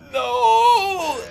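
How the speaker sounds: anguished shout. Real, not acted. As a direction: cry it out in dismay. Reacting to going full authentic.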